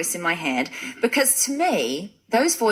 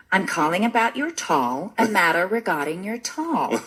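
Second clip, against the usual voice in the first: mock robotic phone agent, slightly lower; a hint of automated-sounding caller; 3 semitones lower than usual. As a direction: lightly imitate a robotic call-centre caller. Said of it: "it sounded like a robot".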